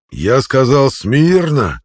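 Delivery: shouted command, high and loud. A narrator's reading. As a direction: repeat the order harder. Centurion repeats order.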